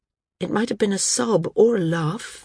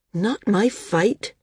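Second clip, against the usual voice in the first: mildly indignant; 2 semitones higher, slower than usual. Acted. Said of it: "He sounded mildly indignant".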